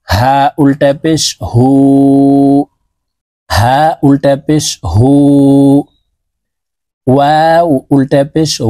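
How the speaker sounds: উ drawn long with rounded lips; slow drill recitation. Shown as a demonstration. Teacher showing the long ulta pesh, slowly. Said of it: "ঠোঁট গোল করে ... উচ্চারণ করতে হবে".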